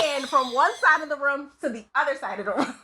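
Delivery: laughing through the words. Real, not acted. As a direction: giggle as you tell it. Laughing at her own scare.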